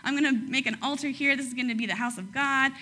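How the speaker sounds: mock wide-eyed wonder; awestruck Jacob. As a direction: play Jacob as starry-eyed and gushing. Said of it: "So Jacob's like".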